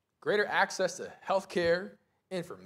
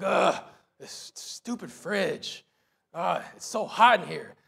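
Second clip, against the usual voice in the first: retold grumbling with a groaned "ugh"; emphatic mock-grumpy griping; 6 dB louder than usual. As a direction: complain like a grouch, hammed-up. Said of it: "I was just so grumpy".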